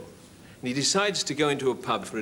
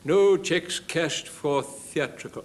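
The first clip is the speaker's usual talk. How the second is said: notice read out; 4 semitones higher, much slower than usual. Acted. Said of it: "have you not seen the notice".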